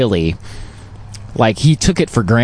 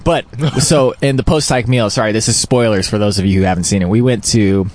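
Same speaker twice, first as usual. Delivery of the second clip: chewing while talking. Real, not acted. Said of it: "sorry for the chewing and eating sounds".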